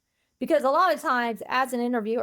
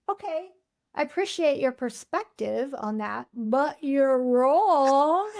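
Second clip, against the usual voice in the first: polite but blunt; 3 semitones higher, slower than usual. Retold or imitated. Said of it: "I'm like".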